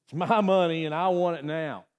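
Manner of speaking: lightly mimicked TV ad voice; a hint of a commercial pitchman; J G Wentworth ad. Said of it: "J G Wentworth".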